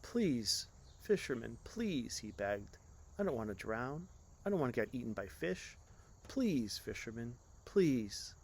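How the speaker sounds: mildly tearful begging; a touch of tearful pleading. Acted. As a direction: plead with a hint of tears. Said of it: "began crying and pleading".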